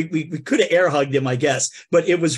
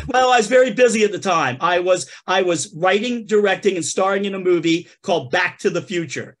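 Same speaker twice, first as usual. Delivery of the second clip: George Santos. Acted.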